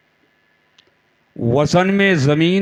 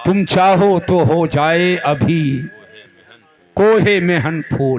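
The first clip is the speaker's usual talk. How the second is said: verse recitation. Acted. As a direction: stretch each phrase, lift the last one. Repeats the verse.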